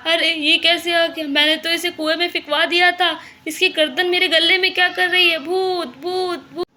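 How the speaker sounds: high, loud, panicked outcry; storyteller's frightened ghost yell; terrified shouting. Acted. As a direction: shout in acted horror, pitch held up. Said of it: "बहुत डर जाता है और ज़ोर-ज़ोर से चिल्लाने लगता है".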